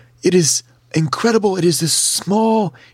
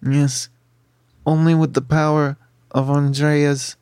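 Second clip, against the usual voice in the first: low, measured creature voice; Snurf Berblin; 4 semitones lower than usual. Acted. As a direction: speak slowly in a deep character voice. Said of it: "turns to you and says".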